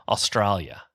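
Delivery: put-on a light, playful stab at an Australian accent on Australia; hammed-up Australian accent on Australia; mock Australian accent. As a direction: say Australia the way an Australian would, Ostrail-ya, half joking. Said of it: "good name to say in the accent".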